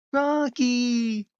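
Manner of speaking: high, excited shout of the name. Retold or imitated. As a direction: yell it like a movie callback. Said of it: "Date will go".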